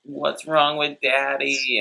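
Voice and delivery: put-on high, slow child voice; little son. Little son asking about his passed-out dad, high child voice. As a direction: imitate a small child asking, slowly. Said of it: "his son's like".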